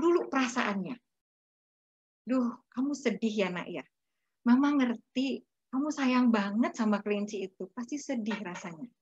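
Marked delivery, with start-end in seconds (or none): 2.3-8.9 tender. Acted. Mother empathising over dead rabbit.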